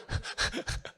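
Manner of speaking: short low chuckle; quiet laugh at one's own joke. Real, not acted. Laughs at own exam-writer joke.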